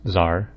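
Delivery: Zar in one slow syllable; "Zar" rhyming with car, no t; official pronunciation. Shown as a demonstration. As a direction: say Zar with a plain z start. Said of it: "completely ignoring the T and the H".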